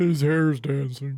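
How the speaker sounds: muttered side comment. Voicing a drunk juror during a trial: muttering under his breath. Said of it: "He kinda says it under his breath".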